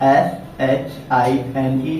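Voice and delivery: letters spelled out slowly one by one; slow letter-by-letter spelling. Shown as a demonstration. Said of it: "जैसे क्या".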